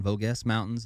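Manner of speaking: "Vosges" said VOH-guess with a hard g; unsure pronunciation. Real, not acted. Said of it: "I just have the hardest time pronouncing".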